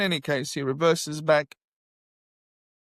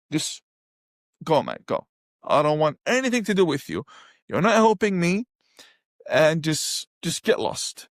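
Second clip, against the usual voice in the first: shooing away. Retold or imitated. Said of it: "shooing him off".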